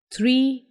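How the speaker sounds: थ्री with an aspirated th at the start; TH sound. Shown as a demonstration. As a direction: say थ्री as a clear model word, breathy th for the T. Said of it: "टी की आवाज़ थ हो जाती".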